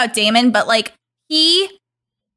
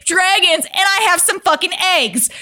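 laughing rant; 6 semitones higher than usual. Retold or imitated. Damon rant quote, high.

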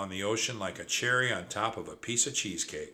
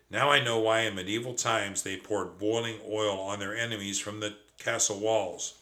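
whining. Acted. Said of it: "whined my cousin".

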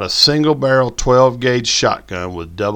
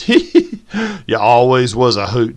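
drawn-out teasing drawl; 4 semitones higher, 8 dB louder, much slower than usual. A narrator's reading.

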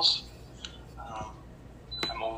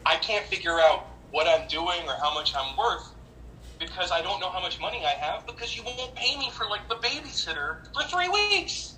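getting angry; 4 semitones higher than usual. Real, not acted. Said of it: "sorry for getting angry".

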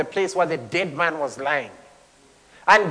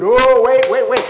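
sudden stop; 5 semitones higher, 8 dB louder than usual. Real, not acted. Sudden interruption.

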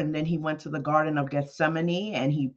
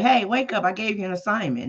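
calling to wake them; 4 semitones higher, faster than usual. Retold or imitated. Jesus rousing sleeping disciples.

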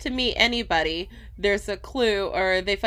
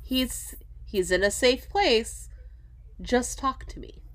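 Jigsaw; slower than usual. Retold or imitated. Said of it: "What he tells him, he said".

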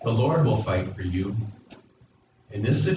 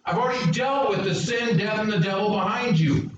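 much higher, driving preached command; God commanding; 10 semitones higher than usual. Acted. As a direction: urge them forward as God. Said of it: "He says".

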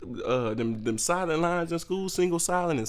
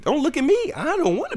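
don't look at me; 13 semitones higher, 5 dB louder than usual. Acted. Refusing to help mom.

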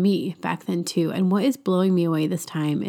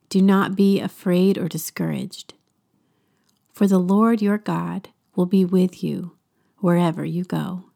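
slow reading. Shown as a demonstration. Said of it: "I'm gonna read it to you slowly".

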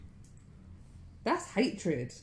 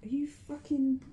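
outraged commenters; 6 semitones higher than usual. Retold or imitated. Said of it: "people in the comments are like".

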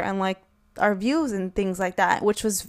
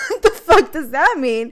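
higher and louder through laughter; laughing and crying; 6 semitones higher, 6 dB louder than usual. Real, not acted. Repeating his vague answer, laughing and squealing. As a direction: crack up while saying it.

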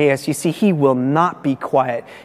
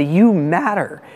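sincere. Retold or imitated. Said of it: "simply look into another person's eyes".

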